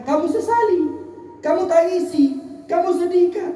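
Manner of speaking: questioning rebuke climbing to a high pitch; retold divine reproach. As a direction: reprove with rising insistence. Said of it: "ditegur sama Allah".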